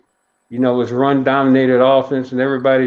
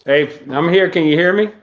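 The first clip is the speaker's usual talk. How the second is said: muffled behind a face mask; through a face mask. Real, not acted. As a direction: speak through a mask over the mouth. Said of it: "Excuse my mask".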